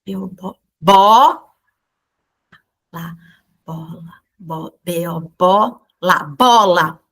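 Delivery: lightly voiced child decoding bola; imitating a child reading. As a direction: sound out each syllable like a struggling pupil. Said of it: "ela faz assim".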